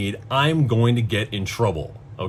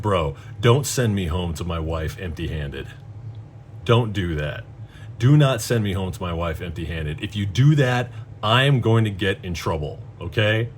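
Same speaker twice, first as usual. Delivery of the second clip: low, earnest plea, each point pressed home; retold, measured pleading with a touch of the child; childlike pleading; 4 semitones lower than usual. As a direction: beg not to be sent home in trouble. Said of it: "I sound like a fucking child right now".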